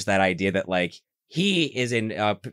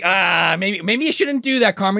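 higher, pleading voice; mock worried plea; 10 semitones higher, 5 dB louder than usual. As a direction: beg him gently to stop. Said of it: "Flora's like".

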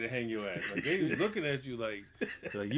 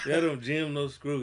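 southern drawl imitation; 3 semitones higher, 4 dB louder, slower than usual. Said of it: "he said that".

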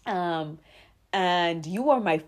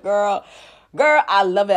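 delighted gush; 14 dB louder than usual. Retold or imitated. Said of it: "'cause I'm like".

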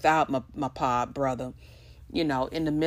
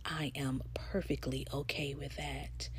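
whispered aside; breathy secret whisper; 12 dB quieter than usual. Real, not acted. Soft aside after "guess what.

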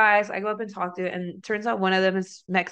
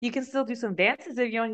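much higher, softer, sugar-coated offer; all sweet; 5 semitones higher, 3 dB quieter than usual. Retold or imitated. Stripper sweetly offers the tipping customer more dances. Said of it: "I was like, all sweet".

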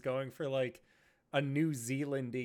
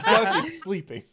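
much higher and louder, laughing; loud silly voice; 8 semitones higher, 14 dB louder than usual. Acted. Joke voice after laughing.

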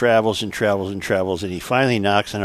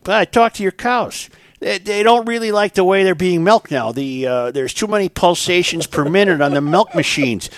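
gypsy voice; 7 semitones higher than usual. Acted. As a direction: pitch the gypsy up high.

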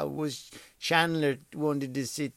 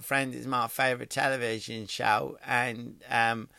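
softer, slow dim-witted Beckham imitation; a light imitation of David Beckham, softer; mock David Beckham; 2 semitones lower, 5 dB quieter than usual. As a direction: play him slow and a bit dim. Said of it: "here's what he was saying".

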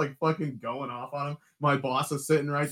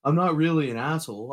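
louder, higher indignant protest; defensive protest; 6 semitones higher, 6 dB louder than usual. Retold or imitated. Drunk coworker protesting to Jordan, loud and indignant. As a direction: insist you're not the bad guy.

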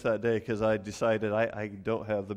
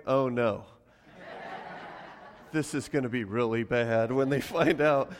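dread through a laugh. Retold or imitated. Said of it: "I'm sitting over in their corner going".

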